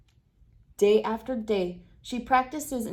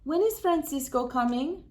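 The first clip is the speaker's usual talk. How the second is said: a hint of a hopeful child asking; lightly voiced little girl, wistful; longing child question; 5 semitones higher than usual. Rosita asking Mommy about her brother, wistful. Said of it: "Rosita asks".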